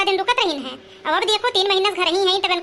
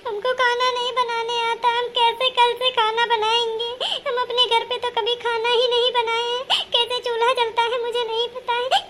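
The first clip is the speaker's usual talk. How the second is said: acted tearful whine; 3 semitones higher than usual. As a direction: whimper it like a worried new bride. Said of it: "अरे कहे रो तू". (रोते हुए, ऊँची आवाज़ में शिकायत)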